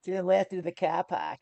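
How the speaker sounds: imitation Aussie twang on car park; Australian accent. Streamer copying co-host's attempt, fake Australian accent. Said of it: "I wanna hear Raina's Australian accent".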